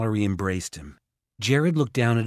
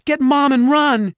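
high, loud urgent command; frantic high yell; 9 dB louder than usual. A narrator's reading. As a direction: shout for them to escape. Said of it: "Mallory yelled".

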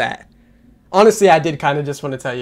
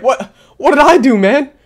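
higher and louder mock-innocent whine; voicing the door; 9 semitones higher, 6 dB louder than usual. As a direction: play the door as a wronged victim. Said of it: "The door's like".

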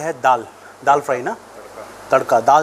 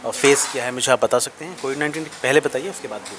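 muffled behind cloth mask; speaking with mouth covered; through a face mask. Real, not acted. Seen 1: Left man's red cloth mask covers mouth and nose throughout.

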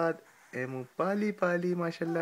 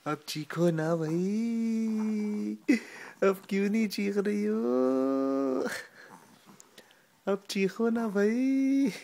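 coaxing; 5 semitones higher, slower than usual. Acted. Parent coaxing baby to scream.

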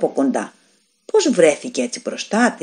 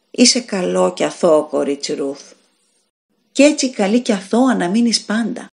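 said sweetly; 2 semitones higher than usual. A narrator's reading. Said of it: "της είπε γλυκά".

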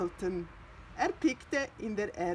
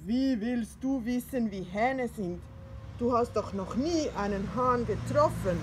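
lightly voiced old Pettersson; 2 semitones higher, 5 dB louder than usual. Pettersson questions Findus.

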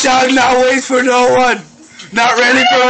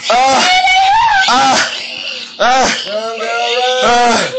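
spent, gasping groans from laughter; laughing to tears; slower than usual. Real, not acted. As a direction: wheeze it out, nearly crying with laughter. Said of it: "I'ma cry".

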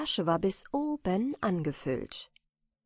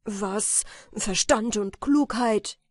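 empörter Ausruf; 3 semitones higher, 5 dB louder, slower than usual. Acted. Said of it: "rief jener".

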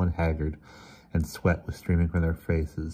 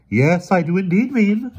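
emphatic confirmation; 8 dB louder than usual. Acted. Emerson confirms the horror.

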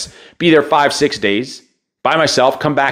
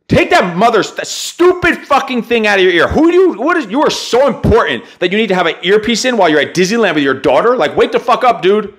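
exasperated outburst; 4 semitones higher than usual. Retold or imitated. Ranting at the earpiece dad.

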